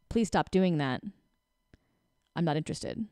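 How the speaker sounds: quiet, level request; calm and clear. Shown as a demonstration. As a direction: say it calmly from your power. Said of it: "do you hear how when I".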